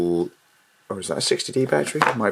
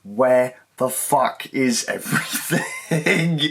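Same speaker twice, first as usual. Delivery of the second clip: mock panic; much slower than usual. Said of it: "now I'm freaking out going".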